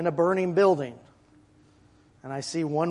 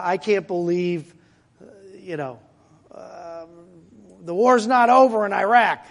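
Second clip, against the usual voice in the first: doom-and-gloom complaint; 5 dB louder than usual. Retold or imitated. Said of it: "your tone every time is like".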